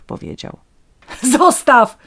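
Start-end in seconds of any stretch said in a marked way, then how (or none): 1.2-2.0 high, loud command; desperate cry. A narrator's reading. Daughter stops the vagrant taking the fish, desperate cry. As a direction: call it out sharply in despair. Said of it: "zawołała zrozpaczona córka".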